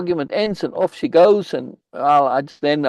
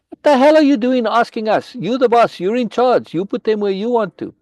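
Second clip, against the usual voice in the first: retold angry outburst; 9 semitones higher than usual. Lace annoyed, telling the boss to decide himself, angry. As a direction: snap it back like an annoyed tribeswoman. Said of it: "she's very annoyed with me".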